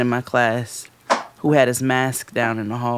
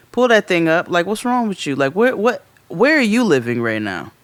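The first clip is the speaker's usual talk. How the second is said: mild, higher-pitched teacher telling-off; lightly acted disbelief at a kid; retold exasperated reprimand; exasperated scolding; 3 semitones higher than usual.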